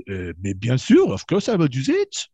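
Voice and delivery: mock French-accented count; hammed-up French accent. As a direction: play a crafty French nobleman agreeing, in a French accent. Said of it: "And the Count d'Estaing said".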